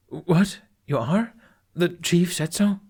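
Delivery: high, startled questions; shocked disbelief. Acted. Fishlegs startled by Astrid's plan, voice jumping up in disbelief. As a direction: caught off guard, voice jumping up.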